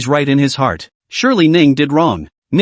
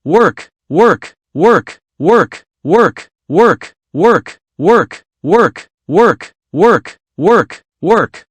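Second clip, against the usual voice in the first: barked order; 3 semitones higher, much slower than usual. A narrator's reading. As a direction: drive the slacking workers like a taskmaster.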